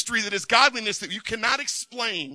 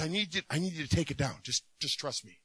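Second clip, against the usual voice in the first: gentle reassurance; 3 semitones lower, 6 dB quieter than usual. Retold or imitated. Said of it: "And God says".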